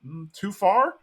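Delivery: high, mock-innocent shrug; Khan playing innocent. Khan to offended guests, high mock innocence. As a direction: squeak out a faux-innocent excuse. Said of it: "And he's like".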